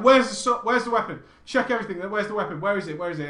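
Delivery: frantic at first, then winding down; retelling a frantic search for a weapon; panicked searching. Retold or imitated. Panic over a possibly stolen weapon.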